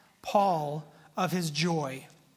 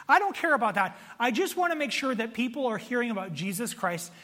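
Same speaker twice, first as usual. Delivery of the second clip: higher, emphatic, resolute declaration; Paul; 4 semitones higher than usual. Acted. Paul in prison dismissing his critics, earnestly resolute. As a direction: wave off the slander with conviction.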